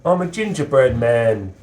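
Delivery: high cheeky cookie voice; gingerbread man voice. Pretend. Playing gingerbread man in mask.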